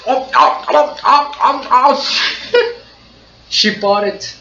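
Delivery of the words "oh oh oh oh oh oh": high breathy flustered oh-ohs; flustered stammer. Retold or imitated. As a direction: stammer like a boy caught off guard. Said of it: "Makoto's like".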